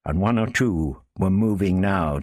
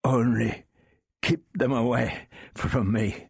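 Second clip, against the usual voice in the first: pleading; 6 semitones higher than usual. Acted. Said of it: "pleading captive".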